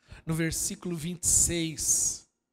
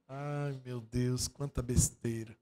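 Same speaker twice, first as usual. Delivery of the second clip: exasperated aside; 7 semitones lower, 5 dB quieter, slower than usual. Real, not acted. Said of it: "sighing at the nonsense".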